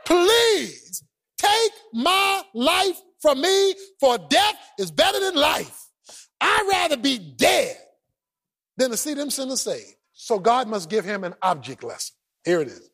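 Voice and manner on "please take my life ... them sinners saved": slow, drawn-out mock plea; lightly voiced sulky Jonah; sulking Jonah. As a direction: stretch it out like a whiny prophet. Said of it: "preacher want to die this bad".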